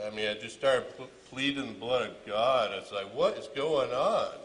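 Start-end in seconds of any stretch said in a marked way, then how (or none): 3.1-4.3 slow, high, loud frightened plea; desperate plea. Retold or imitated. Father pleading with his son holding the gun, terrified. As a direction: beg for an answer, terrified.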